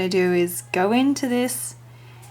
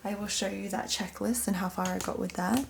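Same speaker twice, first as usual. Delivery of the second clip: softer, hushed so as not to wake anyone; talking quietly; 7 dB quieter than usual. Real, not acted. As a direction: keep it down, someone's asleep. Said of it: "I'm talking quiet 'cause I don't wanna wake up my mum".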